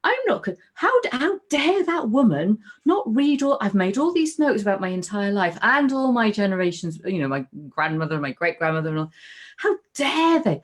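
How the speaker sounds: high, indignant outburst, words tumbling out; retold indignant anger. Woman recalling a specialist who ignored her notes, high indignant outrage. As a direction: relive the fury at the specialist who wouldn't read your notes. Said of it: "it was that anger".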